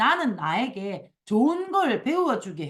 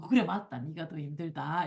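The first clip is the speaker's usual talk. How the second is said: softer, lowered voice, giving in; mock resigned concession; 6 semitones lower, 5 dB quieter than usual. Sponsor giving in to the complainer, mock resigned concession. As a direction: concede just to end the argument, play-acted. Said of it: "이렇게 해야 끝나요".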